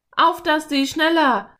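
high, loud, urgent scream; frantic shouted urging, pitched high; desperate yell. A narrator's reading. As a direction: yell at the horse to hurry. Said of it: "schrie Philipp".

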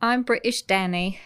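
lightly put-on British accent; mock British accent. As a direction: introduce yourself in fake British. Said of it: "my British accent is far better than yours".

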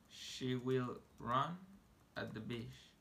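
"She will run" spoken very slowly, each word apart; unhurried teacher demo; slow model. Shown as a demonstration. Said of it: "teacher models English slowly".

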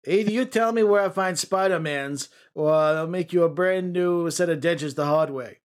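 gruff comic-book villain; Scorpion voice. Pretend. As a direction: growl it like a cheap supervillain. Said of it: "this is the Scorpion's voice".

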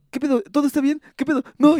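high-pitched worried questions; acted-out fright. Son on the phone about mamá in hospital, mildly panicked. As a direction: imitate someone thoroughly spooked. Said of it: "ya súper espantado".

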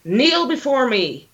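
dark lord. Retold or imitated. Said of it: "you walk in like".

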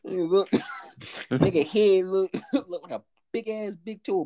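ordinary talk

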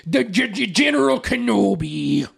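put-on slow hammy Russian accent; bad Russian accent. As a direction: do a cheesy Russian villain. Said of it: "a bad Russian accent is what he has".

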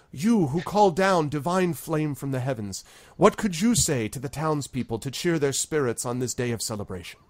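lightly voiced town leader.

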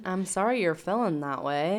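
slow, hollow mock apology; fake validation. Co-host mimicking husband's apology, fake sympathy. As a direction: drag out an insincere sorry. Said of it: "he gives this impression of, of validating her feelings".

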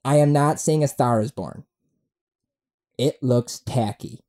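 lightly put-on, deliberate statement; mock friend's voice. Podcaster reading out his friend's post, lightly mocking. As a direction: read it as your friend's verdict. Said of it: "He doesn't talk like that".

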